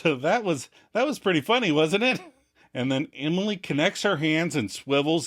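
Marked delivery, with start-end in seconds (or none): 0.0-2.2 laughing. Retold or imitated. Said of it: "as the speaker laughs".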